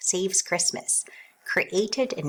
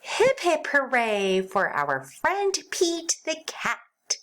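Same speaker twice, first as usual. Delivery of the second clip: cheer; 7 semitones higher than usual. Acted.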